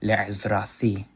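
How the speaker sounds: Le'ezrathi drawn out slowly with th as in thin; slow Le'ezrathi, th instead of t; chosen pronunciation. Shown as a demonstration. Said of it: "I said".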